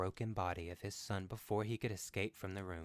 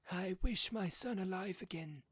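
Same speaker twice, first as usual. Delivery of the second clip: fearful; 12 semitones higher, 4 dB louder than usual. Acted. Husband makes the dreaded wish.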